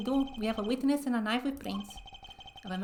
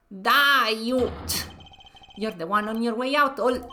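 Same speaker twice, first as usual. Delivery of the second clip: shouted threat; loud acted outburst; 5 dB louder than usual. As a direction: yell it as a menacing threat. Acted quarrel, loud cry.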